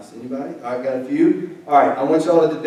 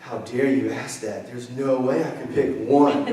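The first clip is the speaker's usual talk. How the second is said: mock dramatic; 3 semitones lower, 4 dB quieter than usual. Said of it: "like, all dramatic".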